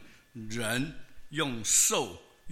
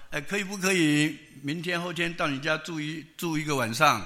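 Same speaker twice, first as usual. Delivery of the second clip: polite request; 3 semitones higher, 4 dB louder than usual. Retold or imitated. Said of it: "我说".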